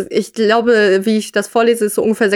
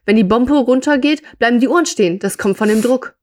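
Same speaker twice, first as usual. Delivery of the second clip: read-aloud character line, slightly raised pitch; story dialogue. A narrator's reading. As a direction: voice the man explaining, as in a story.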